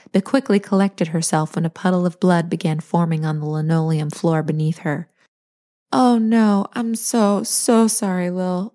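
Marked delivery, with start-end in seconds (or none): 5.9-8.7 wailed. Acted. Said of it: "Larkin wailed".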